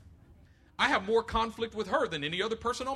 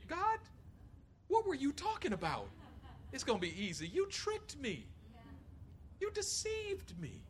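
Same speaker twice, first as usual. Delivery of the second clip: much higher, softer half-laughing whine; mock complaint to God; 7 semitones higher, 7 dB quieter than usual. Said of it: "Me and the Lord have had that conversation".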